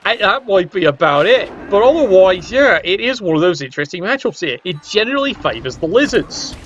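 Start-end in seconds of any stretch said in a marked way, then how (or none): 4.6-6.6 "generally" lifted and stretched, rising; stress on generally. Shown as a demonstration. Caster hedging his prediction, stressing "generally". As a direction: lean on "generally" as a hedge. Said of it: "I do stress the word generally".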